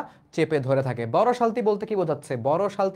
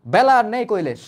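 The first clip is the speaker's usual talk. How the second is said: loud, irritated reminder, a bit higher; annoyed; 4 semitones higher, 7 dB louder than usual. Acted. Aunt urging the boatman Kailash, annoyed and loud. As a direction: snap at him that the day is gone. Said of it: "মাসি বিরক্তির সঙ্গে বলে".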